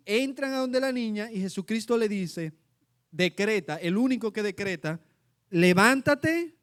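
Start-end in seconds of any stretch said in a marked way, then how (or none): 5.5-6.6 slow, drawn-out, raised command; commanding decree. Retold or imitated. Jesus commanding the dead girl, slow decree. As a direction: decree it slowly with authority.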